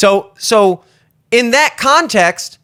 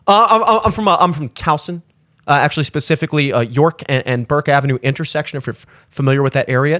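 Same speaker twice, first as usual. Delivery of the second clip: mock overexplaining; 6 semitones lower, faster than usual. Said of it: "What am I supposed, I'm from Towson?".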